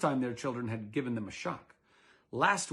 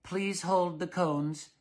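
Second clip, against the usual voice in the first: lightly fussy husband; 4 semitones higher, 3 dB louder, slower than usual. Acted. Mister Dullard ordering.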